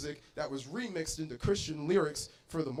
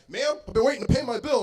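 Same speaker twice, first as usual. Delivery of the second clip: annoyed customer; 6 semitones higher, 5 dB louder than usual. Acted. White customer complains.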